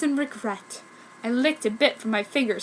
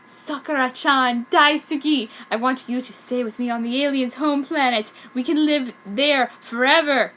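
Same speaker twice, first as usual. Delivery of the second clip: gothic; 3 semitones higher, 4 dB louder than usual. Acted. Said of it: "He said very gothically".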